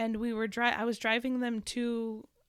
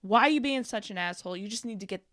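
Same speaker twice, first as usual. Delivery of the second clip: louder, mock-angry rant; retold road rage; 7 dB louder than usual. Mother cursing a swerving driver, mock-angry rant. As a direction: tell off a driver, building in volume.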